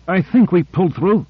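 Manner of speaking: understated gasp of relief; mild gasp. A narrator's reading. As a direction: say it as if catching breath. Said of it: "gasped Owens".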